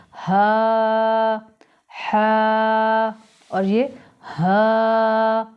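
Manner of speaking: हा first from the chest, then from the throat. Shown as a demonstration. Teacher contrasts the chest and throat हा. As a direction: contrast the two हा sounds. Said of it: "ये गले से आवाज़ आएगी".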